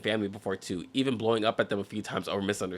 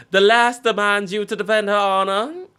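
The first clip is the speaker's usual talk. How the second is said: mock outrage; 10 semitones higher, 8 dB louder than usual. Mocking the girlfriend's demand.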